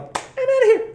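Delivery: high, jaunty mock farewell; mock exit line. Quitting, mock dramatic exit.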